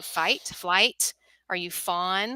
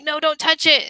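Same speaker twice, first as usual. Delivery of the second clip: put-on higher, louder whiny child protest; hurt kid; 9 semitones higher, 8 dB louder than usual. Kid with a scraped knee whining at a parent, higher and louder. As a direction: play the kid guarding a sore knee.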